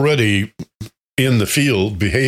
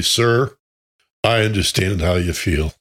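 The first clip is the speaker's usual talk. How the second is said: quiet and slow. Retold or imitated. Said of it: "said quietly and slowly".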